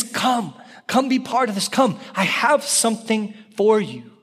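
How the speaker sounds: high, gently urgent invitation; pleading. Acted. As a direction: plead with them to come. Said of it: "There's a pleading tone to it".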